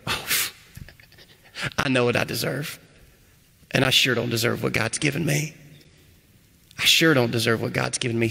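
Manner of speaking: humble laughing gratitude. Pretend. A believer telling the church what God has given, humbly laughing. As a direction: laugh gently at how undeserved it is. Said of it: "do you stand here tonight and go".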